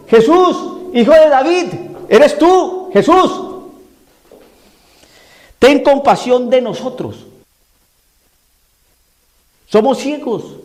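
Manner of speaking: loud, high-pitched cry for help; wołanie niewidomych. Acted. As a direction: call out to Jesus across a crowd, pleading. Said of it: "Entonces gritaban".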